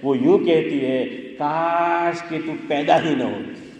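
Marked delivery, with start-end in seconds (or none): 1.4-3.7 slow, drawn-out parental lament; a hint of a worn-down parent, stretching the wish; exasperated parent. Parent tormented by their child, lightly acted exasperated lament. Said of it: "باپ عاجز آ جاتا ہے، ماں عاجز آ جاتی ہے".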